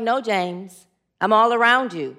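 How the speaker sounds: lightly voiced God, low and steady; booming voice. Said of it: "It's a booming voice".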